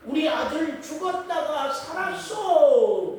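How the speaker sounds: loud, high, drawn-out announcement; proclaiming news. Acted. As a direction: proclaim it slowly to a crowd. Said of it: "많은 사람들에게 그 잔치로 통해서 알리는". (크고 높게 길게 알리는 목소리)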